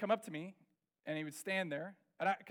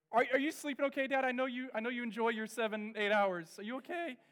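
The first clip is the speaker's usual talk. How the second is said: caring son; 4 semitones higher, 3 dB louder than usual. Retold or imitated. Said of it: "he came up to me and said".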